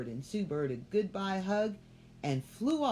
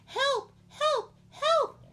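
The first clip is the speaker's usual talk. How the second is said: very high, loud screams; panicked bird screaming help; 8 dB louder, much slower than usual. A narrator's reading. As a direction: shriek it like a trapped little bird. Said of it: "She started screaming as loud as she could".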